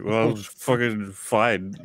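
slow, lightly mocked drunk Scottish accent; drunken Scottish. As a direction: imitate a tipsy Scottish man, dragging the words. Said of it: "The poor drunken Scottish guy".

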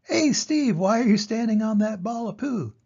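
very high, small animal call; curious dik-dik. Acted. Dik-dik calls to Steve, very high. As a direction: squeak the name out high. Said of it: "The dik-dik says".

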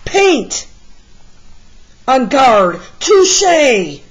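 lunge with each shout; the hero duelling the mutts with paint; battle cries. Acted. Paint sword fight.

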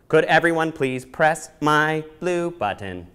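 slow, even mechanical robot request. Acted. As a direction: speak like a polite robot. Robot asks children.

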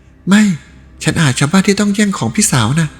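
put-on the young woman pushing him away, ashamed; young woman refusing.

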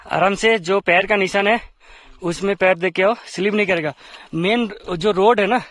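loud, high instructions to a climber; calling out. Real, not acted. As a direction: shout guidance across the snow. (ऊँची आवाज़ में पुकारकर हिदायत देना)

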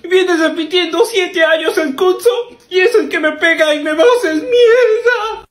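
hammed-up sobbing complaint; blubbering to his brother, half laughing; mock crying. Little brother sobbing about a bully, hammed-up cry.

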